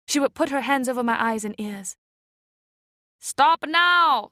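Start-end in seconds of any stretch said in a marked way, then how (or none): 3.2-4.3 louder, higher sharp scold. Acted. Boat woman scolds the men, sharp and loud. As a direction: stop them short. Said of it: "scolded the woman in the boat".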